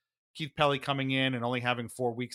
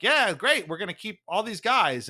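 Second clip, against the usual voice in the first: mock team boast; 7 semitones higher, 5 dB louder than usual. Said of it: "which is like".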